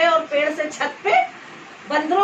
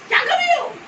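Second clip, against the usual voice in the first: mock stern uncle. Uncle questions her sternly.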